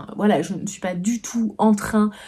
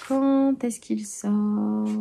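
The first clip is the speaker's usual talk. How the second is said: drawn-out musing; much slower than usual. Pretend. Musing aloud to viewers about the release date, very slow. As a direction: stretch "Quand est-ce qu'il sort?" very slowly, half-singing each syllable.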